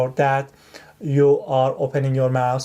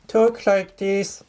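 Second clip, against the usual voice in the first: much higher and slower, a put-on high voice; raised pitch; 7 semitones higher, slower than usual. Shown as a demonstration. Tutor demonstrating to test-takers the raised-pitch voice, high and slow. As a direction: lift the voice way up and stretch it out. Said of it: "raise the pitch of your voice".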